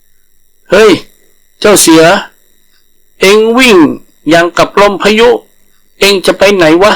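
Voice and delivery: high, cheeky call to a running tiger; a nosy langur shouting after his friend; hailing langur. Acted. Langur calling out to the fleeing tiger, high and cheeky.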